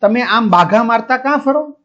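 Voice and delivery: retold yelling at a guide; mock shout. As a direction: call out an irate complaint, voice climbing. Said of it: "શું બરાડા પાડતો હતો?".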